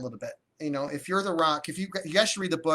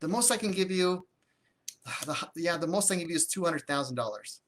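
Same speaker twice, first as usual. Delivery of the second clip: a sigh, then a hesitant, softer restart; reluctant, apologetic offer; 4 dB quieter than usual. Shown as a demonstration. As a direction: sound unsure of your own number. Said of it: "you're saying that that's a low number".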